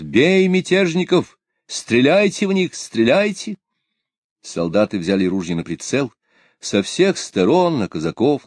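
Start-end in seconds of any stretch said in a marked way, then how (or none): 0.0-3.6 high, urgent shouted orders; shouted command. A narrator's reading. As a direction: bark out the order to fire. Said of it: "воскликнул адъютант".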